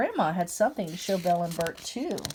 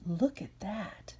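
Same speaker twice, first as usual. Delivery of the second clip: soft and slow, almost hushed; quiet; 8 dB quieter, slower than usual. Acted. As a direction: hush it so the bird stays. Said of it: "Grandma said very quietly".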